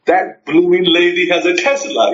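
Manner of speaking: playful Cockney imitation; lightly put-on London accent. Friend remarking on the lady's Tesla, London accent. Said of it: "kind of like London talk now".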